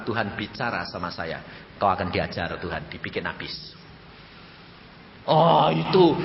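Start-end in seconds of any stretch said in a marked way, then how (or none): 0.0-3.7 hushed warning. Acted. Quiet warning of God's judgment.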